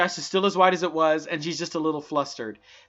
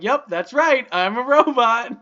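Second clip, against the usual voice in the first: laughing; 5 semitones higher, 7 dB louder, slower than usual. Retold or imitated. Playing robot for kids.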